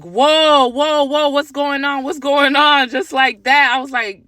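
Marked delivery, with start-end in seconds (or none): 0.0-2.9 louder, higher whoa to break it up; stopping a fight. Retold or imitated. Mother to her cursing son, raised alarmed whoa. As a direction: cut in fast to stop the cursing. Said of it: "And I'm like".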